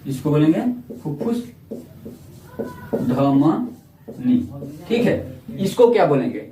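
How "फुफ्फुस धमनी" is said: long gap, then a very drawn-out second word; slow dictation. Real, not acted. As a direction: dictate it slowly as you write. Dictates slowly while writing it.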